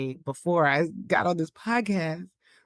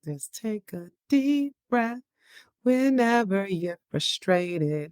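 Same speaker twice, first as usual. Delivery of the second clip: put-on kids' show voice; 3 semitones higher, slower than usual. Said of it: "a kids' show says it".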